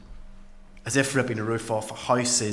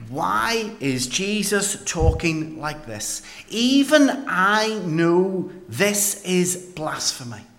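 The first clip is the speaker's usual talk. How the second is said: alarmed disbelief; 5 semitones higher, 4 dB louder, slower than usual. Acted. Alarmed at Jesus' words.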